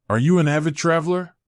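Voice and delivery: lightly voiced old man asking; a hint of an old man's voice; elderly voice. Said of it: "in his elderly voice".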